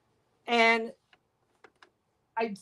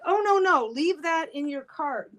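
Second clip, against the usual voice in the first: high, quick no no; urgent protest; 4 semitones higher, slower than usual. Retold or imitated. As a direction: stop him, a bit alarmed. Cashier girls stopping customer.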